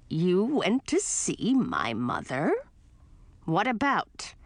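put-on raspy, slow cranky old witch; grumpy witch aunt. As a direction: snap like a grouchy old witch. Voices grumpy aunt Gracina.

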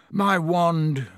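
trembling, shaken voice; shaky voice. Acted. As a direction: voice shaking with shock. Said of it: "said Ron in a shaky voice".

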